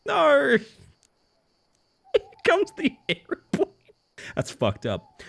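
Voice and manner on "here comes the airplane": put-on baby feeding talk.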